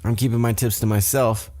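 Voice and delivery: high-pitched sassy comeback, imitating; catty retort. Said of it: "they get a little catty".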